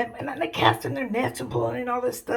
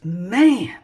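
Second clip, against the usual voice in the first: weary exasperation, lower in pitch; drained, fed-up complaint; worn out; 4 semitones lower, 5 dB louder than usual. Acted. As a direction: sigh it out like you've had enough. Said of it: "Jesus is just worn out".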